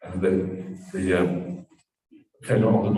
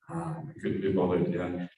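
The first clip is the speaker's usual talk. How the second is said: low, softer, unwilling friend; can't be bothered; 4 semitones lower, 5 dB quieter than usual. Acted. Friend declines the hill climb, can't be bothered. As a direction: shrug it off lightly, low and quiet.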